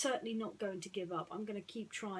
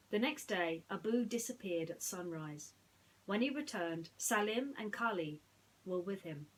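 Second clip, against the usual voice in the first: put-on bright read-aloud story voice for children; lively storybook reading; storytelling narration. A narrator's reading. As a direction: tell it like a bedtime storybook.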